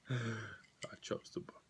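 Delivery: whispered aside; conspiratorial whisper. Real, not acted. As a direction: whisper it to the crowd. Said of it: "I'd like to pause here and point out".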